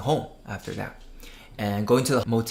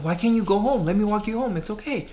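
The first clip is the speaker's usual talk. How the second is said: high-pitched coaxing stranger; mildly acted reassurance; 9 semitones higher than usual. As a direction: lightly play a man coaxing a child. Man reassures crying girl in story.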